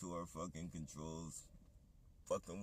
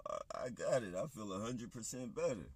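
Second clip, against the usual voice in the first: higher, louder mock-sincere claim he got it; sarcastic Trump; 5 semitones higher, 4 dB louder than usual. Ranter mimics Trump bragging about feeling better, loud and sarcastic. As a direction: play a fake cheerful recovery with heavy irony. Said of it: "that's sarcastic as fuck".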